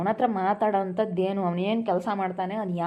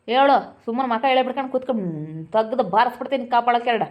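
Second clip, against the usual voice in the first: raised, impatient parental scolding; stern demand. Acted. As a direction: press sharply for an answer. Father threatens and demands an answer.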